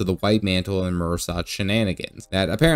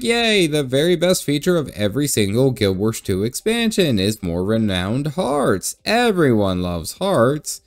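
sarcastic; 4 semitones higher than usual. Real, not acted. Mocking the quest design.

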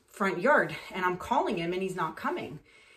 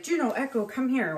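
lightly raised, higher calling voice; a hint of a husband summoning his dogs; 3 semitones higher than usual. Husband calls two dogs inside, calling out.

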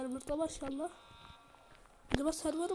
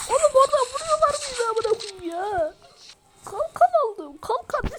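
angry shout; 10 semitones higher, 10 dB louder than usual. Real, not acted. Getting shot in the game.

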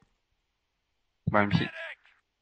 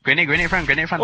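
urgent callout, a bit louder; grenade warning yell; 4 semitones higher, 4 dB louder than usual. Real, not acted. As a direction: shout the grenade warning to the team.

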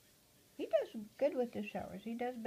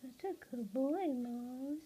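higher, sing-song praise; pet talk; 4 semitones higher, slower than usual. Real, not acted. Owner praising her parrot Mose, higher cooing. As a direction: coo it gently to the bird.

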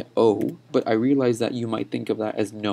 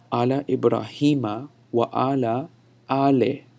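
verse demo. Shown as a demonstration. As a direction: recite the verse up to "ale" as an example. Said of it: "You're saying ale".

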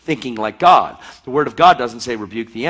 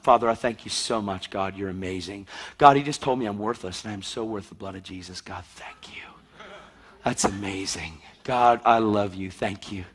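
softer, lower thankful prayer; quiet grateful prayer; 3 semitones lower, 4 dB quieter than usual. Retold or imitated. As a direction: thank God gently under your breath. A believer prays thanks.

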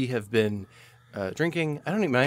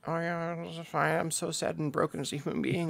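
high, soft, put-on meekness; higher, quieter mock acceptance; mock resigned; 6 semitones higher, 8 dB quieter than usual. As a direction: play it small and defeated, mockingly. Acting out a beaten-down partner's reply.

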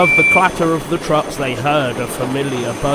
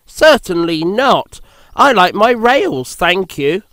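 prim refusal; 4 semitones higher than usual. Acted. Percy refuses primly.

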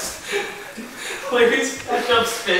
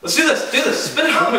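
laughing; 7 semitones higher than usual. Real, not acted. Egging on the spit, laughing.

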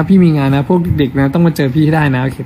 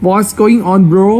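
cool bro greeting; 5 semitones higher, much slower than usual. Pretend. Mock cool English greeting.

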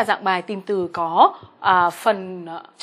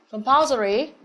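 "Compulsory" nhấn "pul", lên giọng cuối từ; đọc mẫu "Compulsory", trọng âm ở âm tiết thứ hai. Shown as a demonstration. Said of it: "trọng âm hai". (nhấn "pul" trong "Compulsory")

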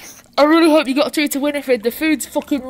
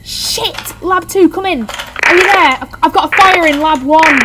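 loud, high urgent shouting; panicked radio call; 4 semitones higher, 8 dB louder, slower than usual. Acted. Patricia calling Lab two about a fire, panicked shouting.

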